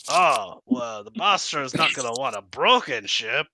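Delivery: kobold voice. Acted. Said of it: "the kobold voice is contagious".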